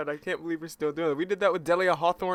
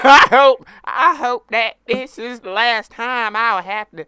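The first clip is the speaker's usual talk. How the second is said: high, louder posh English lady, hammed up; posh English accent; 5 semitones higher, 11 dB louder than usual. Playing a snooty English witness in court, hammed-up posh English accent. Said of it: "Make it sound really cockney".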